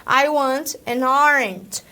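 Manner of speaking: slow, careful English line; slow demo English. Shown as a demonstration. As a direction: spell it out slowly for the class. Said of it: "com uma vontade de comer uma laranja".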